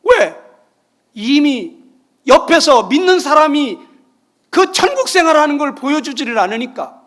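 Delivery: loud, high, urgent sermon delivery; 힘차게 외치는 설교; forceful preaching. Acted. (높고 크게 외치듯 설교)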